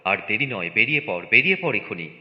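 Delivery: brisk, insistent orders with punched imperatives; hurried, emphatic urging; urgent rousing. Acted. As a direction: hustle a sleepy household out the door. Father rousing family to flee.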